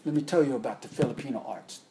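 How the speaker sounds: a light imitation of a thick Filipino accent. Filipino master telling his student about the arts, lightly imitated Filipino accent. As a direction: lightly put on Filipino accent, easy and friendly. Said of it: "he had a real thick accent".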